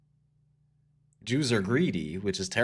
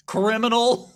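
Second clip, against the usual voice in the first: put-on high, loud Albanian-accented outburst; mock Albanian accent; 12 semitones higher, 7 dB louder than usual. Comic acting out an Albanian stereotype, mock Albanian accent. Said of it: "Stereotypes associated with Albanians".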